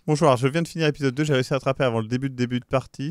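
fast, chirpy read; fan message impression. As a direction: rattle it off like a fan comment. (lecture rapide imitant un fan)

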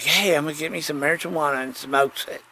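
usual speaking voice

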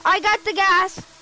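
loud excited calls; thrilled at the find. Real, not acted. Finding item excitedly.

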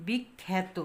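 বিখ্যাত as 'bik-khæ-to', syllables spaced out; æ-like vowel. Shown as a demonstration. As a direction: model বিখ্যাত with a clear 'æ' after খ. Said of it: "উচ্চারণটা কি?".

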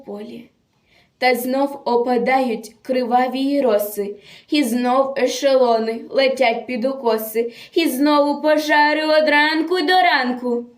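measured, theatrical verse delivery; dramatic poem recitation. Acted. Reciter tells of a captured partisan girl, dramatic declamation. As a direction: declaim a solemn war poem with feeling.

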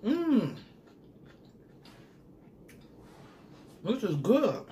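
high delighted mm; savoring. Real, not acted. Savouring the sauce.

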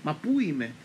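confused grandmother calling out in panic; frantic cry. Retold or imitated. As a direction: cry out where am I, bewildered. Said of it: "άρχισε να φωνάζει σε έξαλλη κατάσταση".

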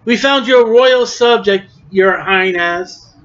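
mock-courtly jeer, lightly acted. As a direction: taunt him with fake homage. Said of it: "Now they're mocking Jesus again".

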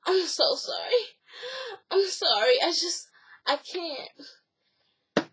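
soft and slow, a touch of crying; mock tearful apology. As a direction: break off, unable to go on. Acted tearful refusal at the altar.

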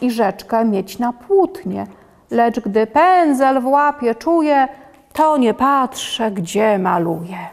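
put-on lively, sing-song children's story reading. A narrator's reading. Reader performs a rhyming picture book for children, lively. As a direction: read the rhyme out to little listeners with bounce.

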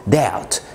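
doubt said slowly as "dout"; slow correct pronunciation. Shown as a demonstration. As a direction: doubt drawn out, b silent. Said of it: "كلمة doubt". (doubt ببطء من غير الـ b)

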